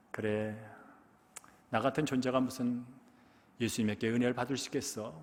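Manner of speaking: soft, defeated inner voice; a beggar quietly doubting his worth; doubtful self-pity. Retold or imitated. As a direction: talk yourself out of hoping. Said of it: "여러 가지 생각이 교차를 합니다".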